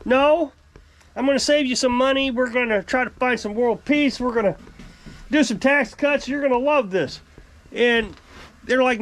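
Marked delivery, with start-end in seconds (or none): 0.0-7.2 mock president. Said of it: "a president that says".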